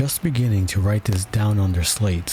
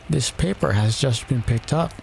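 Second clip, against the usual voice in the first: high-pitched royal attendant; White Rabbit; 4 semitones higher than usual. A narrator's reading. White Rabbit addressing the king, high voice. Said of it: "said the White Rabbit".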